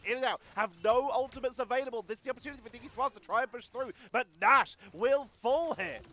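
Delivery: excited caster, voice lifting; live esports play-by-play. Real, not acted. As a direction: call the action with rising urgency.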